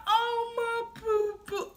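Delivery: high-pitched, doting relatives' squeal, imitated; happy gushing. Happy family reacting to her pregnancy news, imitated gushing. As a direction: gush over her like delighted family. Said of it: "They was happy".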